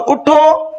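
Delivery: "اٹھو" pitched high, standing alone; stop after اٹھو. Shown as a demonstration. Teacher marking the stop that means keep standing, halting after اٹھو. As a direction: say اٹھو and halt right there. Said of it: "جب آپ یہاں پر stop کریں گے".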